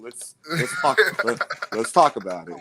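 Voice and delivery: formal broadcast read, hammed up; news reporter voice. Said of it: "give y'all my motherfucking news voice".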